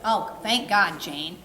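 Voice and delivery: lightly voiced thankful dog; relieved dog voice. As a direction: voice the dog's relief. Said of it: "He's like".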